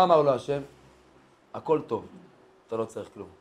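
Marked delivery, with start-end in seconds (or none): 1.5-3.3 low, hushed brush-off; quiet dismissal. Acted. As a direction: send them away softly, voice dropped. God brushing off the snake. (פטירה שקטה בקול נמוך)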